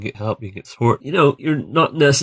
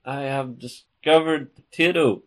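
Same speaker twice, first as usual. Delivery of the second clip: higher-pitched mock courtier; Walter Raleigh; 6 semitones higher than usual. Raleigh reporting back to the Queen, mock-formal courtier. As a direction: announce it grandly to a monarch. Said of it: "Walter Raleigh comes back and says".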